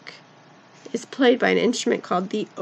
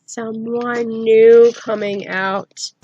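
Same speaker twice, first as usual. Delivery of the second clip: suspenseful; 5 dB louder, much slower than usual. Acted. Teacher builds suspense for kids.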